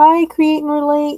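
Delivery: squeaky, very high, loud voice. Greeting the viewers of Create and Relate, voice going up high. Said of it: "my voice just went up high like that".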